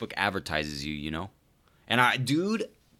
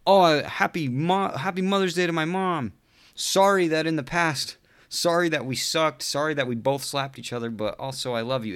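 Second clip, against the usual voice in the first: higher, put-on sappy voice; mock sappy poster; 7 semitones higher than usual. Mocking a Mother's Day post in a sappy voice. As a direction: parody a gushing Facebook tribute.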